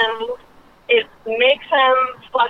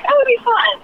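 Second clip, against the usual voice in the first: much higher, sing-song keen tone; mock eager; 14 semitones higher than usual. Friends decide to invite the others, sounding keen. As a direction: say it with playful eagerness. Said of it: "we were like".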